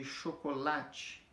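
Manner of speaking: "chocolate" with the weight on "la"; penultimate stress. Shown as a demonstration. Teacher giving a paroxytone example, stressing "la" in "chocolate". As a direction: lean on "la" in "chocolate". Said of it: "a força dela tá na penúltima sílaba".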